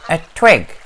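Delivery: high, loud swan voice; a touch of proud bird; lightly voiced swan. Swan speaks.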